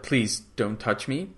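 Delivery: soft, slow and careful plea. Retold or imitated. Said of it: "very careful with Salik".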